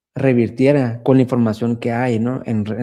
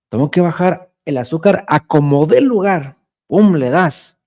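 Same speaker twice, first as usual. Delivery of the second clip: mock patient; 4 semitones higher, 3 dB louder than usual. Voicing the obstinate patient's urgency.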